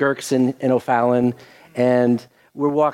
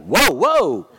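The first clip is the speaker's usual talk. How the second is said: retold amazement; 13 semitones higher than usual. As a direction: mimic her stunned double take. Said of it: "she looked at me like".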